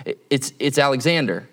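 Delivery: stammered, hesitant reply; a little uneasy. Retold or imitated. Young soldier answers the sterner commander, a little uneasy. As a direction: stumble lightly into the answer, imitating nerves. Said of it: "the kid gets a little uneasy".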